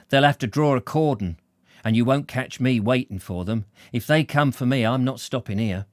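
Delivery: lightly voiced defiant man thinking to himself; a hint of a stubborn character talking himself up; story character's indignant inner monologue; defiant working man.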